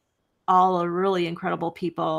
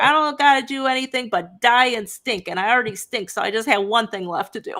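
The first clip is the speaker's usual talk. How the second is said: lightly put-on Southern dad voice; Southern accent; 3 semitones higher, 4 dB louder than usual. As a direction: quote dad's favorite quip with a Southern accent. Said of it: "he had a Southern accent".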